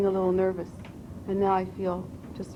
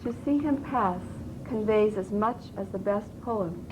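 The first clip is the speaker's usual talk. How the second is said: measured recitation with pauses between phrases; poetry reading; 2 semitones higher, slower than usual. Shown as a demonstration. Student reciting Whitman to a voice coach, measured poetry reading. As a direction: recite it line by line, deliberately.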